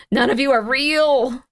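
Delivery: slow, drawn-out accusation; dramatic accusation. Real, not acted. Streamer accusing the listings of being fake, dramatic. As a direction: draw it out as a dramatic verdict.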